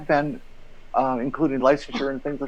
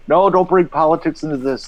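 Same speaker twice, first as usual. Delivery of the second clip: mild mock yell; half-shouted imitation of a complaining editor; retold yelling; 3 semitones higher, 4 dB louder than usual. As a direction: imitate an indignant editor, slightly raised. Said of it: "would start screaming and yelling".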